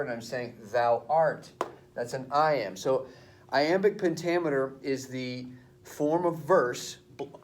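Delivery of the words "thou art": "Thou art", accent landing loudly on "art"; stress on art. Shown as a demonstration. Teacher explains the iamb, stress on "art". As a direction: punch "art" after a lighter "Thou". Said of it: "putting the accent on the second word".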